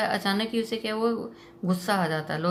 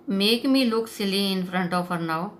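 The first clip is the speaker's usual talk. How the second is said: bitterly; much slower than usual. Retold or imitated. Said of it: "George says bitterly".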